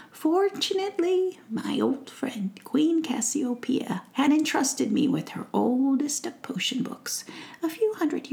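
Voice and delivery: a kind witch recalling the potion; kindly old witch. Acted. Witch explaining to Faith how she healed her, kindly.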